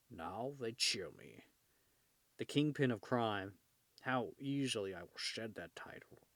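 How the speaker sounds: lightly voiced Kingpin, trailing into a hush; a touch of Kingpin musing to himself. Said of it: "Sorry if I'm going in and out of accent".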